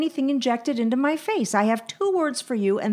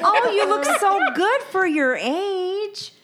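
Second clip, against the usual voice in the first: mocking; 9 semitones higher than usual. Mocking a cliché compliment.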